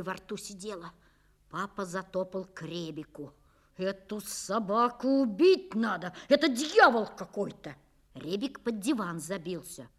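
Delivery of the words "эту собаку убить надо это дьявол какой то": angry rant. Acted. Father raging at the dog.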